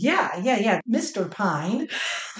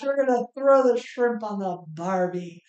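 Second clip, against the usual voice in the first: put-on Australian accent. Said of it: "I'll do Australian accent".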